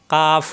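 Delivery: "কাফ" with a firm, light k and open aa; hard kaf. Shown as a demonstration. Teacher showing the letter, "কাফ" hard and crisp. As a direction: hit the k of "কাফ" firmly. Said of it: "শক্ত হবে".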